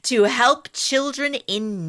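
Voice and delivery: lightly voiced genteel lady with a transatlantic accent; high class woman. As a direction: read the testimony as a dignified upper-class matron with a transatlantic accent. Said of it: "like a high class woman".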